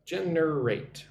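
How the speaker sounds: "Generate" drawn out slowly, weight on the first syllable; stress on first syllable. Shown as a demonstration. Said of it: "Put the emphasis on the first syllable".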